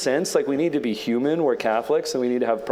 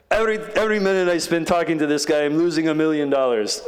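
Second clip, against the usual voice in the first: impatient; 6 semitones higher, faster than usual. Retold or imitated. Billionaire complains to Ellie.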